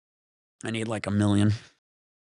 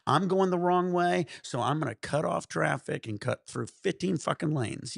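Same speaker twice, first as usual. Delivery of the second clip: higher-pitched parody of self-importance; mock entitled driver; 3 semitones higher than usual. Storyteller mocks drivers going the wrong way, entitled. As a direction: play the driver who owns the road. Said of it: "They all think they're entitled".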